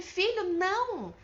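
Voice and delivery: high, loud warning cry; demonstrated shout. Shown as a demonstration. Parent stopping a son running into the street, mock shout. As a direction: shout to stop a child, held short of full force. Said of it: "Você vai gritar pra ele".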